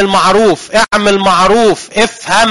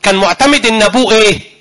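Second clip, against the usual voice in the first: say it louder; 4 semitones higher, 4 dB louder than usual. Real, not acted. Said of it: "قولها بصوت عالي".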